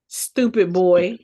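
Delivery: dying words. Retold or imitated. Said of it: "her dying words".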